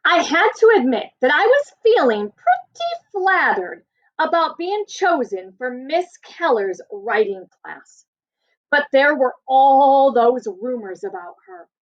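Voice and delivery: expressive read-aloud to a class; story narration. Acted. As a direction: tell it like a storyteller for kids. Teacher reads story to class.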